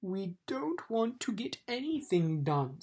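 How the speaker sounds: mild angry snap. Acted. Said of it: "snapped another angrily".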